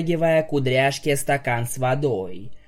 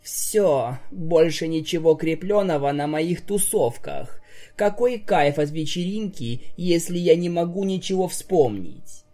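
Pinkie's usual voice; 4 semitones higher than usual. Acted. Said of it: "уже обычным голосом продолжила".

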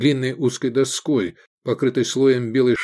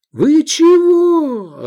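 much higher, louder, very slow yell; 9 dB louder, much slower than usual. Acted. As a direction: bellow at the brawlers. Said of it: "орал Цицилий".

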